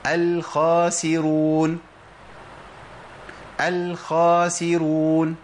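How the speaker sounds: الخاسرون with a thin light خا, drawn out slowly; slow wrong demo of الخاسرون, kha not full. Shown as a demonstration. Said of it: "بنسمع كتير من الناس يقول".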